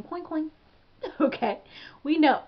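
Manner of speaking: giddy, amused hype; playful laughing. Real, not acted. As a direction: crow about money through laughter. Jokes about hustling for money.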